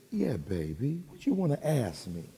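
soft, tender retold reply; hushed, indulgent answer, acted out; gentle with a child. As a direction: coax a little one softly.

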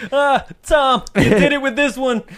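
high, loud delighted praise; gleeful congratulation. Pretend. Tree congratulating a friend on the spectacle, gleeful. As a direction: praise a pal for the great prank.

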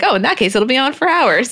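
hamming up a lip-kit plug; mock gushing mom. Chris quoted plugging lipstick.

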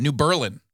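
New Berlin said new BUR-lin; local pronunciation. Shown as a demonstration. Naming a Wisconsin town the local way, BUR-lin. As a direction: Berlin with the stress on the first syllable. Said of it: "they don't do it right".

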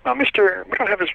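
high, small fake official voice; quiet little voice. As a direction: deliver the prank news in a prim little voice. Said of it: "kind of a quiet little voice".

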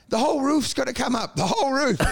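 high-pitched mock British gypsy accent; attempted gypsy accent. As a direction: imitate a gypsy tradie's accent with insistence. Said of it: "I can't even do the accent".

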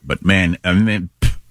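talking with something in mouth; mouth full. Real, not acted. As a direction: speak around something in the mouth. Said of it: "I got something in my mouth".

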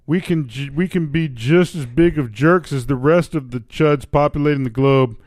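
put-on Canadian accent. Reading a Canadian's column aloud, in Canadian accent. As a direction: read it as a comic Canadian. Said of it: "give up the accent".

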